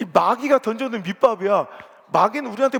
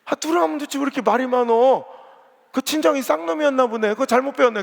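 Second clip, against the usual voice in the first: raised, scornful mock scolding; 5 semitones higher, 4 dB louder than usual. Deaconess mocking another woman's family recipe, raised and scornful. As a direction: belittle her family's recipe. Church women quarrel over cooking.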